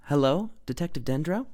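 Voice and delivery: frantic caller asking for the detective; anxious woman. A narrator's reading. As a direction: ask nervously, voiced high. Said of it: "she asked anxiously".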